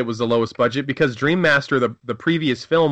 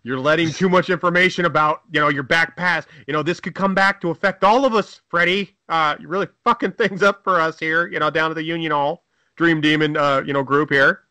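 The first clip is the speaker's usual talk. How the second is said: angry demon boss; 4 semitones higher than usual. Pretend. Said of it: "they're like".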